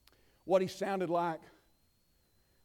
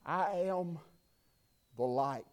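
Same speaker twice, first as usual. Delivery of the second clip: much softer, low and hushed; Jesus; 6 semitones lower, 10 dB quieter, slower than usual. Acted. Jesus speaking softly to the children in the temple, hushed and low. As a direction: let it fall quiet and deep, like a gentle teacher. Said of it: "can you hear him as he sits in that temple and he says".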